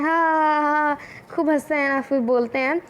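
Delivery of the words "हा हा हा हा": a light teasing ha ha, only slightly raised; children laughing at someone, acted mildly; mock laughter. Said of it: "खूब ज़ोर से हंसते हैं". (हल्की नकली हंसी)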